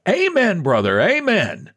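high pious response, dropping at the end; fervent worshipper. Acted. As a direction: answer the preacher from the pews, pitched high. Congregation's responses voiced in story.

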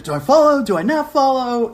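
high, anxious self-questioning; high flustered mock panic; panicked dithering. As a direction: torn over whether to follow, voice jumping up. Confused new dad in hospital.

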